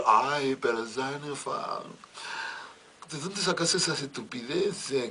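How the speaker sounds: lady of the house. Acted. Lady of house soothing maid.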